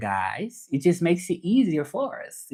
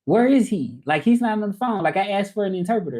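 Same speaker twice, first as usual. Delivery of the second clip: higher-pitched confused complaint; confused caller; 6 semitones higher than usual. Retold or imitated. Caller who asked for an interpreter, confused. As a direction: mimic a puzzled caller protesting. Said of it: "they be so confused".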